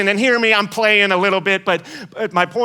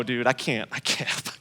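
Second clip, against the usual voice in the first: fading mock mutter; 9 semitones lower, 9 dB quieter than usual. Friend trailing off in refusal.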